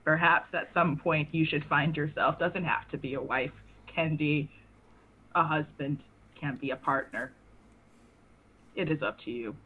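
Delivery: put-on old man voice. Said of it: "I'm losing my old man voice".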